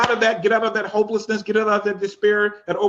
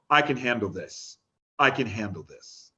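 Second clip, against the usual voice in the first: low, soft self-assurance; inner voice; 8 semitones lower, 5 dB quieter than usual. Acted. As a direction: speak it as a quiet thought inside the head. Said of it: "hear a voice inside your head".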